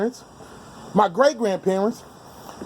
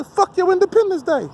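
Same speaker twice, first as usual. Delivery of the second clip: defiant outburst; 11 semitones higher than usual. Retold or imitated. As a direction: spit it out as a challenge to a racist listener. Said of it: "if I say".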